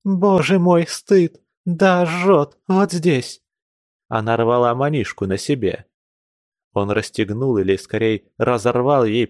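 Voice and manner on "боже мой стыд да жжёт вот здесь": hysterical cry. Acted. Hysterical outburst continues.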